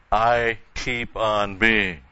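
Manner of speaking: "I keep on being" slow with weight on "I"; slow, stressed "I" opening the phrase; emphatic I. Shown as a demonstration. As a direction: dwell on "I", slowly. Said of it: "It's very emphatic".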